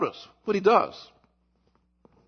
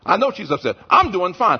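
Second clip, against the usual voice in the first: mock spouse; 6 dB louder than usual. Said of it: "husbands and wives who say that".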